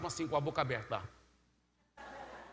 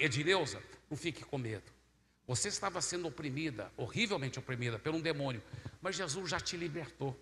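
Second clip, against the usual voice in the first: softer, soothing retold words; gentle reassurance; 4 dB quieter than usual. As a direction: reassure her softly. Soothing a frightened woman. (tom suave, tranquilizando)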